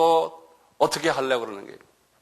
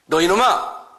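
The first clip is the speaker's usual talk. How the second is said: sharp scolding call, a bit louder; rebuke; 3 semitones higher, 4 dB louder, slower than usual. Acted. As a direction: scold the devil firmly. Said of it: "이렇게 하는 거예요".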